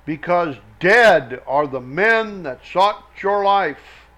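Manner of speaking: slow, emphatic Bible reading; deliberate reading from scripture. Acted. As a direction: proclaim the verse slowly, leaning on key words. Reads scripture aloud verse by verse.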